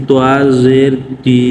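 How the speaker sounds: "তোয়া জের তি" stretched out piece by piece, ending on long ee; zer vowel demo. Shown as a demonstration. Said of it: "জেরের উচ্চারণ". ("তোয়া জের তি", জেরের উচ্চারণ টেনে টেনে, শেষে লম্বা ই)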